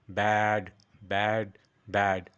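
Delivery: ব্যাড drilled with a long, held vowel; stretched BAD. Shown as a demonstration. Teacher drilling learners, stretched ব্যাড. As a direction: draw out each ব্যাড. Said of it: "একটু stretch করব".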